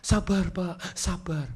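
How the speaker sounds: soft, soothing plea for patience; gentle calming. Retold or imitated. Staff trying to calm an angry customer, gently soothing.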